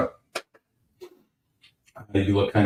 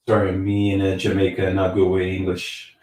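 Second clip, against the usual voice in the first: put-on Jamaican accent. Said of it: "his Jamaican accent is on point".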